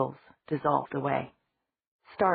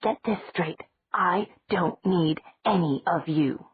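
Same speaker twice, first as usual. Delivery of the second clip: slow, exaggerated imitation of his threat; mock Stefan; 2 semitones higher, slower than usual. Bonnie mocking Stefan's threat, slow mock menace. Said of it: "he borrowed it from Damon".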